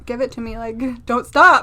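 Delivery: lightly acted crazed begging; crazy person. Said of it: "like a crazy person".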